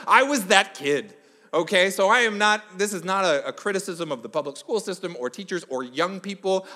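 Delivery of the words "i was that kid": laughing admission, louder. Real, not acted. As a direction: laugh while owning up.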